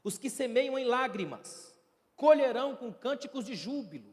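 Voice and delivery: scripture reading. Acted. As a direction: proclaim the verse. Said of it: "no verso cinco ele diz assim".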